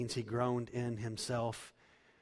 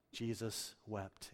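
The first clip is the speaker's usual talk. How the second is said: hushed verse; 6 dB quieter, much slower than usual. Acted. Solemn reading of verse.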